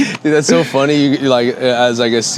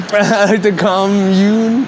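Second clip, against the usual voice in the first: laughing; 6 semitones higher, much slower than usual. Real, not acted. Laughing repeat.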